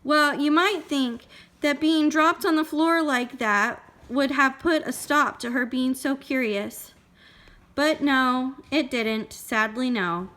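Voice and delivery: put-on measured storytelling for a small child; story read-aloud. A narrator's reading. Parent reading Goldilocks to a child, expressive storytelling.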